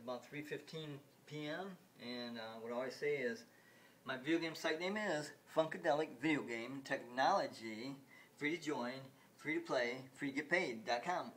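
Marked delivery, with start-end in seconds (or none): 4.1-11.3 quick, practiced pitch; rattled-off slogan. Real, not acted. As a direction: reel off the site name and slogan. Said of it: "I said that fast".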